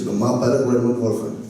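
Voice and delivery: regional southern French lilt, brisk; quick Southwest French, falling at the end; Southwest French accent. Shown as a demonstration. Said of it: "With the Southwest is".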